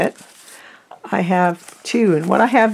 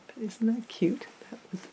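whispering; 3 semitones higher, 11 dB quieter than usual. Real, not acted. Admiring aside.

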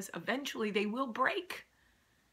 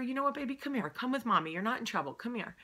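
tender mom; 2 semitones higher, faster than usual. Retold or imitated. Comforting crying daughter.

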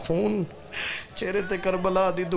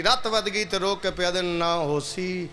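ordinary talk

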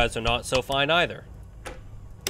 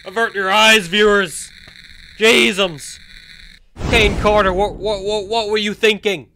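hammed-up scandal; 4 semitones higher, 7 dB louder than usual. Mock scandal at topless toy.

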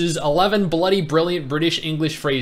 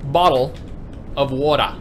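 Australian accent. Shown as a demonstration. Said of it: "in Australia we say".

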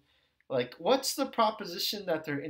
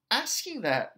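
normal talking voice

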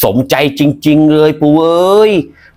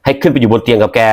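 ordinary talk

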